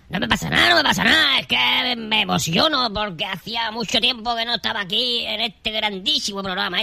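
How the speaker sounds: gushing on without a breath; all in one breath. Acted. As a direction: rattle it off breathlessly. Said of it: "Respira, respira, tío, respira".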